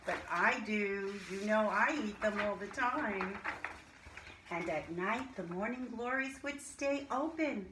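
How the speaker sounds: lively storybook reading to a class; reading to children. Acted. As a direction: read it like a teacher sharing a picture book. Reads a picture book aloud to class.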